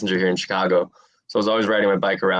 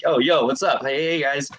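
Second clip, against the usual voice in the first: higher, eager goofy greeting to the guys; awkward kid greeting; 7 semitones higher than usual. Retold or imitated. Skinny new kid greeting gym guys, awkward higher voice.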